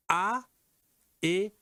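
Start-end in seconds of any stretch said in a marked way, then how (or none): 0.1-0.4 "A" as a clear, high open oral vowel; demonstrated A sound. Shown as a demonstration. Teacher showing the sounds to distinguish, "A" as an oral vowel. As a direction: say "A" alone, cleanly and without nasality. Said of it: "vous allez distinguer le".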